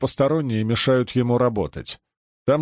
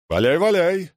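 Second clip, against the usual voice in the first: muttered dismissal; 6 semitones higher than usual. Acted. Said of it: "пробормотал ему вслед".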